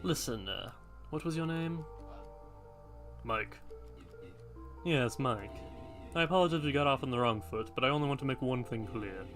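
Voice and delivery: a hint of a solemn old guardian; hooded man voice.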